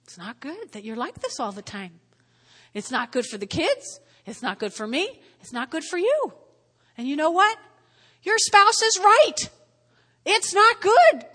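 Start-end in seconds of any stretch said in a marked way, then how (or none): 0.0-6.3 soft, tender plea from a spouse; gentle spouse plea. Retold or imitated. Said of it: "lovely wife or husband that says". 8.2-11.3 loud and high, slow on right; emphatic. Acted. Preacher emphatic affirmation.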